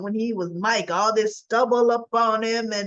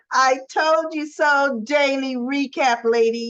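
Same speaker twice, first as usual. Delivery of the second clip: smug told you so; 2 semitones higher than usual. Pretend. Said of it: "turn your lips up at me, and say".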